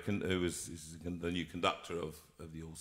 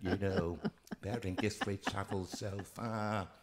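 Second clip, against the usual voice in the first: put-on northern accent; 2 semitones higher than usual. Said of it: "you're from right up north".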